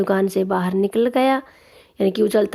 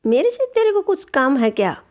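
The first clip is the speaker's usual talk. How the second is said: higher, mildly annoyed retort; angry tailor; 5 semitones higher than usual. Acted. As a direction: brush the mouse off, irritated. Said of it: "दर्जी ने गुस्से से पूछा". (चिढ़ा हुआ दर्जी, ऊँची आवाज़ में झिड़कता)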